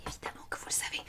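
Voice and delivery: barely audible whisper; hushed, confidential whisper; whispered aside. Real, not acted.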